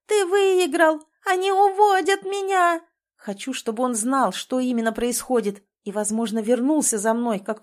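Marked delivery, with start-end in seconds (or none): 0.1-2.8 high, loud calls for help; frantic high cry as she is dragged away; desperate shout. A narrator's reading. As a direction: yell so he hears you. She yells to Tim.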